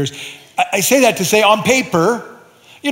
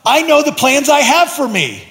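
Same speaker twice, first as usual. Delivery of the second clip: pleading with God; 9 semitones higher, 3 dB louder than usual. Retold or imitated. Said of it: "I'm like".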